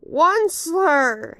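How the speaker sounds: high, loud, slow croaking call; croaking cry. Acted. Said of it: "he cried with a crofulous croak".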